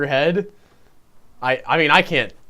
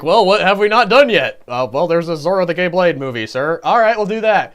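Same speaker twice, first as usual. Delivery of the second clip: studio underling and boss; 4 dB louder than usual. Acted. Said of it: "and sort of later on, like".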